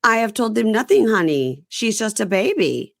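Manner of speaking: a hint of a sassy woman calling everyone honey; imitating diva. Friend mocking a reality star's sassy reply. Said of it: "And she goes".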